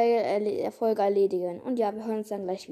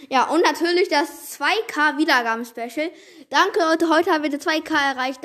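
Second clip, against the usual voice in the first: excited thanks; 3 semitones higher, 5 dB louder than usual. Real, not acted.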